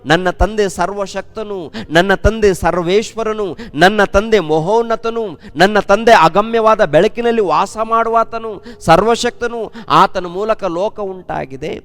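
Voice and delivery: full-force preaching. Acted. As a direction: proclaim each line like a rising altar call. Preacher urging praise of God. (ಏರುತ್ತಿರುವ ಜೋರಾದ ಉತ್ಸಾಹದ ಪ್ರವಚನ)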